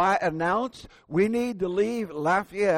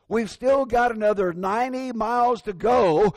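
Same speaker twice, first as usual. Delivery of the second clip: mildly stern, raised retelling of mom; scolding mother; 3 semitones higher, 4 dB louder than usual. Retold or imitated. Mother scolding her impatient four-year-old, mildly stern. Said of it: "she scolded him".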